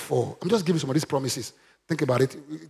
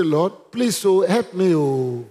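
mock plea trailing down at the end; timid pleading, imitated; 2 semitones higher, much slower than usual. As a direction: imitate a believer begging without boldness. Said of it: "Is that bold?".

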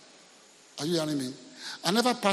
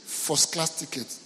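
demanding guest; much slower than usual. Retold or imitated. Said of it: "He said".

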